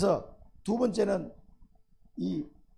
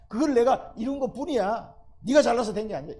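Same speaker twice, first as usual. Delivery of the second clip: loud, higher declaration; raised-voice divine correction; loud rebuke; 5 semitones higher, 6 dB louder than usual. Acted. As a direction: cut his pride down hard. God rebukes the boasting king.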